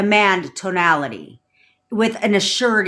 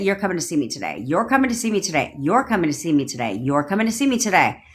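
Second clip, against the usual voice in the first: assured command; 2 semitones lower, faster than usual. Shown as a demonstration. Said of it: "The assurity, the certainty".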